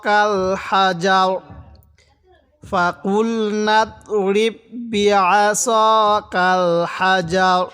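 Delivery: কাল হাজার read slowly, হাজার stopped short; slow recitation. Shown as a demonstration. Teacher leads the class in slow careful recitation. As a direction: recite syllable by syllable, unhurried. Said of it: "তাহলে কিভাবে পড়ব?".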